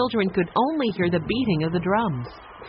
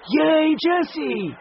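higher, louder, slow stretched cheer; drawn-out cheer; 10 semitones higher, 4 dB louder, much slower than usual. A narrator's reading. The children cheer Jessie again, slower and stretched. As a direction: draw the cheer out long. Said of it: "and shouted".

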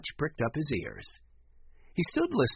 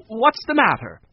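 concerned; 8 semitones higher, 9 dB louder than usual. A narrator's reading. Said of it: "she asked".

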